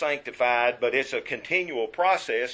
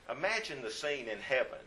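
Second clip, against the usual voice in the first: Imagine said again, much softer; softer repeat; 9 dB quieter than usual. Shown as a demonstration. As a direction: draw them in quietly the second time.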